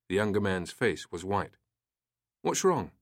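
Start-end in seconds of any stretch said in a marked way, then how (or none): 2.4-2.9 demanding. A narrator's reading. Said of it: "Turner demanded".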